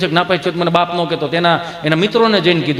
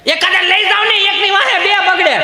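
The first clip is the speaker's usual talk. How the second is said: put-on much higher, slow old woman's plea; high granny voice; old grandmother; 11 semitones higher than usual. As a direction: call out like a fussing granny.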